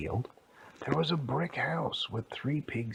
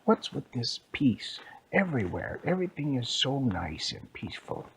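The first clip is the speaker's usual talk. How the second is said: mildly grumbling story characters; lightly voiced grumbling complaint; 2 semitones higher than usual. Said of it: "they were all grumbling".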